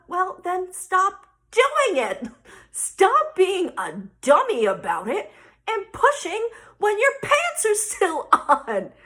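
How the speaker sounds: loud, drawn-out exasperated order. Retold or imitated. Mom telling daughter to stop pushing, loud exasperation. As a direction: hammer each phrase at the kid, acted.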